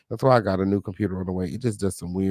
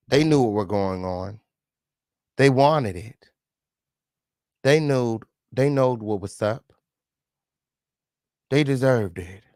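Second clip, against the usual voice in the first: mocking quote. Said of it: "here she is saying that".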